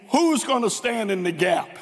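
ordinary delivery

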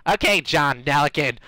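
lightly voiced character, nearer natural pitch; second character attempt. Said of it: "Nah, that's horrible".

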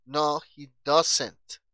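"no he doesn't" muy lento y fuerte, con T final; pronunciación modelo. Shown as a demonstration. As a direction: dicta "no he doesn't" palabra por palabra. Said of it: "Chequen muy bien la pronunciación". ("no he doesn't" despacio y enfático)

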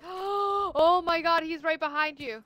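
gasping, shaken and scared; a sudden fright, breath caught; frightened gasp. Real, not acted. Jump scare in horror game.

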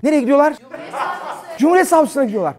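high, loud laughing repetition; incredulous laughing exclamation; laughing disbelief. Real, not acted. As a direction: crack up in disbelief.

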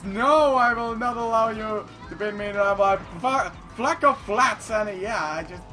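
ordinary talk

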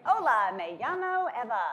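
put-on loud, high Spanish with an American accent; hammed-up non-speaker's Spanish introduction; non-native Spanish. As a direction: proudly overdo your American-accented Spanish. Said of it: "you don't speak Spanish".

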